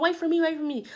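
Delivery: lightly mocking high-pitched plea; retold plea to wait. Retold friend calling after others.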